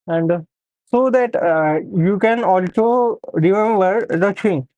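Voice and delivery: talking around a pen held in the mouth. Real, not acted. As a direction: speak with a pen between the teeth. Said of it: "hold a pen in my mouth".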